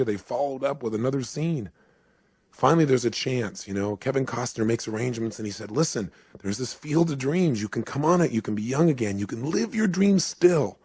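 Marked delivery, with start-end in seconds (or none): 5.7-10.8 enthusiastic pitch, lifting at the end; eager urging. Retold or imitated. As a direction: coax with growing excitement. Costner urging Graham, retold.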